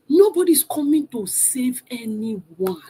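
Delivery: slow, lightly Nigerian Yoruba lilt, anyone said as anywa; Yoruba girl accent. Shown as a demonstration. Speaker to her live viewers, in a light, slow Yoruba accent. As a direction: draw it out like a Yoruba girl from Lagos. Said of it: "let me say it like a Yoruba girl".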